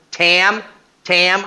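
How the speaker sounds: a touch of a worried yell; mild retold yell. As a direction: call her name in mild alarm. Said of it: "I'm yelling".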